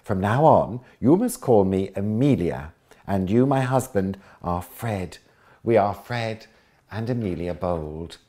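loud, grand, posh English voice; posh English accent as Amelia. Acted. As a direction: play the lady in a posh accent. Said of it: "putting on a posh voice".

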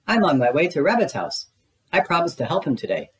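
high, small piglet voice; squeaky Piglet. Acted. Piglet greeting his friend Pooh, high and squeaky. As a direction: pitch way up for a tiny nervous pig.

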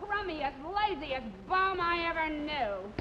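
overacted nagging wife; hammy stage actor. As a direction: ham up the shrewish scolding. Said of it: "She's overacting".

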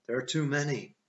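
high, loud protest; urgent arguing. A narrator's reading. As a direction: argue against a reckless plan. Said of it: "I argued".

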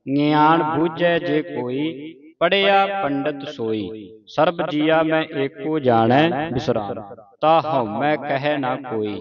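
slow, measured Gurbani reading; scripture recitation. Shown as a demonstration. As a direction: recite slowly, drawing out the words.

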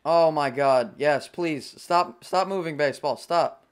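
pleading. Real, not acted. Pleading with ball in flight.

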